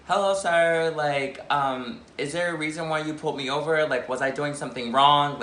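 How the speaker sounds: lightly put-on polite voice for an officer; a touch of customer-service politeness; professional voice. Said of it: "I had to put on my professional voice".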